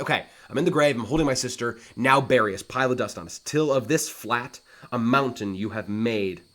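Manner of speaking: mock-anguished brother begging for burial; dramatic paraphrase. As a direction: demand they bury you both. Acts out Laertes in paraphrase.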